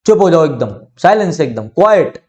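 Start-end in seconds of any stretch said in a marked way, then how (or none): 1.7-2.2 क्वाइट as "KWAI-yut", pitched up; two-syllable pronunciation. Shown as a demonstration. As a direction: split क्वाइट into क्वा-यट. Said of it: "ऐसे, ठीक है".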